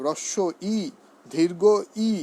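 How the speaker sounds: teacher contrasting হ্রস্ব ই and দীর্ঘ ই lengths; short then long vowel. Shown as a demonstration. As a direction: keep হ্রস্ব ই light, stretch দীর্ঘ ই. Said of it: "তখন জোরে বলতে হবে".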